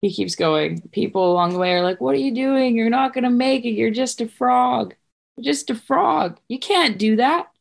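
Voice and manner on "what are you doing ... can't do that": higher-pitched doubting onlookers; mock disbelief. Onlookers discouraging the little frog, higher-pitched disbelief. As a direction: scoff at the runner in a raised voice. Naysayers along the race route.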